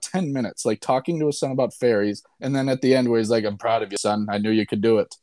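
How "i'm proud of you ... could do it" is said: lightly attempted Irish accent, slightly lowered; Colin Farrell accent. Proud dad to his son at the movie's end, in an attempted Irish accent. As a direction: put on a modest Irish movie-star accent. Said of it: "that was a great Colin Farrell accent by me".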